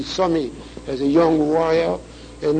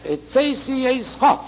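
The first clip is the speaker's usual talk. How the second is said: high-pitched phrase landing hard on Cho; stress on Cho; 7 semitones higher than usual. Shown as a demonstration. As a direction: make the pronoun ending Cho stand out. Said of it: "upon the pronoun of Eischa".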